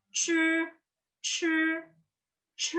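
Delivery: C as "ch" with a puff of air; tongue curled up, breathe out on C; aspirated retroflex C. Shown as a demonstration. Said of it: "Yang ini ada aspirasi".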